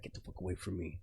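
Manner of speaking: grouchy brush-off. Retold or imitated. Grumpy older homie shoos away the joking youngster, soft and low. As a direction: wave the kid off, grumpy. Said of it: "He was grouchy, grumpy".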